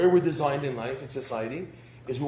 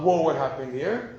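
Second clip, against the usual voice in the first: a louder startled whoa, shown as the wrong way; wrong emotional response; 5 dB louder than usual. Shown as a demonstration. Husband shows the wrong reaction, a startled louder whoa. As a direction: play the reaction he must avoid. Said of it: "The response is not".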